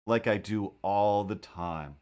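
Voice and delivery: slow, dry aside to himself; dry deadpan. Shown as a demonstration. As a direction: let the sarcasm sink in slowly. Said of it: "You know, like I do all the time".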